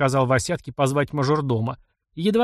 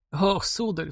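put-on sobbing old man; 6 semitones higher, 3 dB quieter, slower than usual. A narrator's reading. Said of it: "всхлипнул старик".

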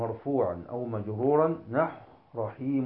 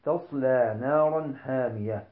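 Quran recitation. Shown as a demonstration. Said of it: "إلا بالسكون".

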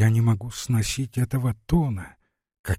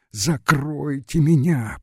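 slow pleading moan; frightened moan; 4 semitones higher, slower than usual. Acted. Glafira in the dark begs to be hidden, moaning in fear. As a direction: beg to be hidden, terrified. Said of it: "простонала Глафира".

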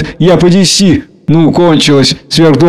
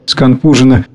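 ordinary delivery, nothing marked

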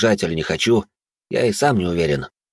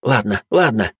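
a spiteful hiss through the teeth; angry hiss; slower than usual. A narrator's reading. Лая огрызается на Мирака, зло шипя. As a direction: spit it out at him in irritation. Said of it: "зло прошипела".

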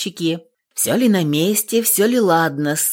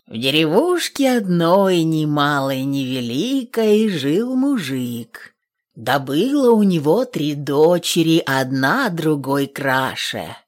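напевный сказ. A narrator's reading. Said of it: "начала старуха рассказывать особым напевным голосом".

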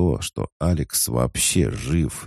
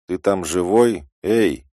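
calling out; 8 semitones higher, 5 dB louder than usual. Acted. Calling out in message.

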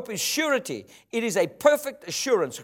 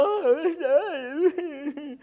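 a high, hammed-up little whimpering "Oh"; mock defeated sigh; 8 semitones higher than usual. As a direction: play the beaten believer caving in.

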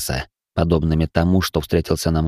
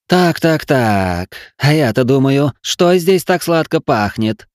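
high, sly demoness voice; man doing a woman's voice; 7 semitones higher, slower than usual. Acted. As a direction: purr it like a gloating she-demon. Demoness appears and speaks.

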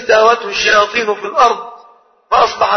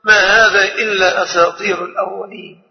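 mocking scoff. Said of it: "فيقول ساخرا".

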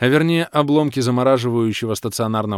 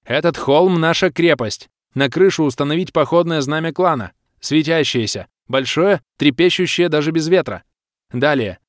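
high, raised, forceful female leader; commanding baroness; 6 semitones higher, 5 dB louder than usual. A narrator's reading. Baroness ordering her fire mages, commanding. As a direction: issue battle orders with authority.

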